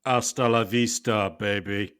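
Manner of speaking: slow, drawn-out Terminator line; lightly voiced movie-robot buzzer; Terminator catchphrase. Contestant giving his robot themed quiz buzzer, Terminator catchphrase. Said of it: "Terminator two action".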